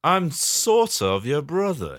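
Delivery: slow villain reveal; drawn-out mock-dramatic confession; lightly hammed-up baddie; bad man. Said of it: "the baddest of mans".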